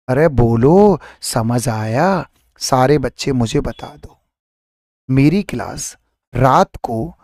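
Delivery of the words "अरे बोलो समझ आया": अरे बोलो समझ आया stretched very slowly; teacher coaxing the class to answer, slowly; drawn out question. Shown as a demonstration. Slow coaxing call.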